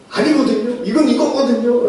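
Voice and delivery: a light mock of a child digging in; stubborn child insisting. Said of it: "라고 우기면".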